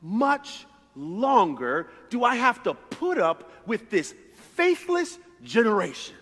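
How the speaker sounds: exasperated, drawn-out lament; slow and fed up, stretching every word; annoyed Jesus. Retold or imitated. Jesus, fed up with his faithless disciples, exasperated. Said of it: "he is super annoyed and says".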